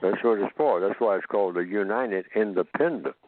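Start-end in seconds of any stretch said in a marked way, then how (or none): 1.5-3.1 "Independent" set off with a pitch jump; stress on Independent. Real, not acted. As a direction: lean firmly on the word "Independent". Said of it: "Emphasis on independent".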